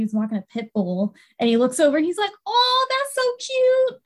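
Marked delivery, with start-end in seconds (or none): 2.5-4.0 high, drawn-out mock coo; gushing coo. Big man admiring the rollerbladers, high gushing coo. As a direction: imitate someone melting over something cute.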